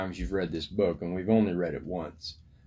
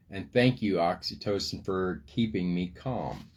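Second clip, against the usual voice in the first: gentle bedtime thanks. Shown as a demonstration. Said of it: "Tuck your little brain people in and say".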